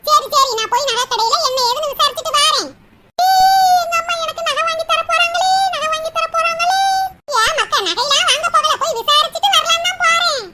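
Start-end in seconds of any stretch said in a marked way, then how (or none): 3.2-6.8 gleeful cheer. Acted. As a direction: crow over the promised necklace. Daughter gloats, jewel coming.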